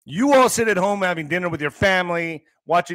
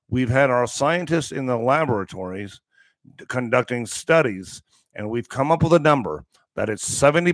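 lightly voiced pompous scientist, measured and lower; mock expert; 3 semitones lower than usual. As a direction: announce it like a self-important researcher. Parodies experts announcing their statistic.

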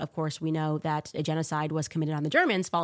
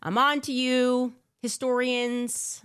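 knowing taunt; 6 semitones higher, 3 dB louder, slower than usual. Real, not acted.

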